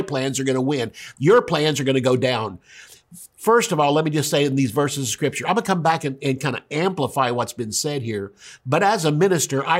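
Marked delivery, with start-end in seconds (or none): none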